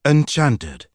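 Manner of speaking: bored gentleman's drawl. Acted. Sir Aubrey greeting Miss Crump, languid drawl. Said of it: "drawled Sir Aubrey".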